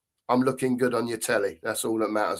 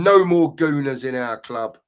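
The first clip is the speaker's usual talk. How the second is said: reading out loud; 5 dB louder than usual. Retold or imitated. Reading a fan's chat message to viewers, slow and firm. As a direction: read the comment out slowly and firmly.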